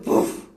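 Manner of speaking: imitated exasperated huff; mimicking someone huffing in annoyance; huffy puff. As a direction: blow out a short, fed-up puff. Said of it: "Aí ela bufou e falou".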